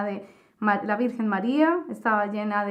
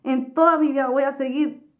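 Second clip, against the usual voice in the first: fervent vow; 3 semitones higher, 3 dB louder than usual. Retold or imitated. Final vow to Jesus.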